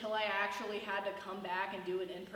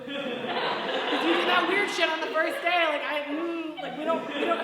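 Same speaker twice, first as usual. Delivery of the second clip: snooty classmate; 4 semitones higher, 6 dB louder than usual. Retold or imitated. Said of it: "And they're like".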